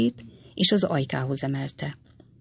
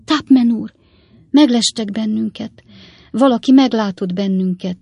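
high, loud frightened exclamation; alarmed cry; 6 semitones higher, 6 dB louder than usual. A narrator's reading. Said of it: "őszinte ijegységgel a hangjában".

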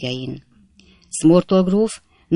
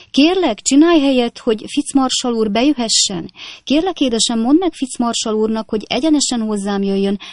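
high, gushing society lady; a flustered grand hostess, much higher; fussing hostess; 6 semitones higher than usual. A narrator's reading. Hostess fussing over a late guest, high gushing voice.

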